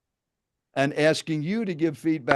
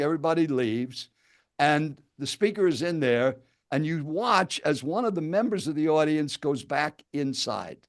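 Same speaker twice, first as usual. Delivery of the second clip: storytelling answer, demo. Pretend. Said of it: "let's just make believe you just asked me".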